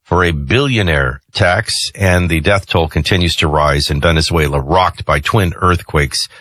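measured radio headline read; news read. Real, not acted. Host briefing listeners on quake death toll, news read.

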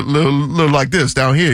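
"little" run together lazily, middle consonants dropped; slurred words. Shown as a demonstration. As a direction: slur "little" as in New Orleans. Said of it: "slur your words a little bit".

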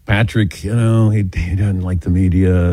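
sighing, low-voiced reluctance; mildly put-out grumble, imitating someone uneasy; a little annoyed. Uneasy guest explains his friend's dislike of media, a little annoyed. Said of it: "probably a little annoyed".

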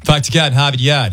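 light mock Boston accent with dropped Rs. Co-host showing how it is done, Boston accent. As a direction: say "Harvard Yard" like a Bostonian. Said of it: "the Boston accent".

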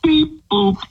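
malfunctioning robot voice. Acted. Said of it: "you have to do it sounding like a robot".

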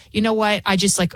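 ordinary delivery

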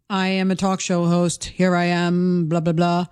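low, slow, drawn-out mock host voice; mock talk show host. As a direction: parody a talk host's on-air delivery.

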